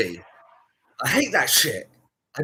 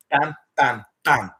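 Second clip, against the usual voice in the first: mock bam; 3 semitones lower, 6 dB louder, slower than usual. Shown as a demonstration. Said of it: "he got, ah, bam, bam".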